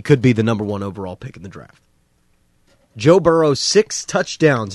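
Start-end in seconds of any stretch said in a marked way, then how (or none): 3.0-4.7 excited. Real, not acted. Host hyping a big performance.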